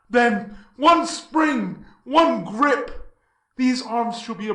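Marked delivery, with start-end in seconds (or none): 0.1-3.1 sudden shout. Acted. Heracles plans to ambush Death.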